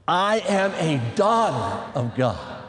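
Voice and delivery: slow, low, drawn-out DAUGHTER; leading a recitation. Shown as a demonstration. Preacher leads the ladies in repeating it, slow recitation. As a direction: stretch each word of the declaration for repeating. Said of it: "say this with me".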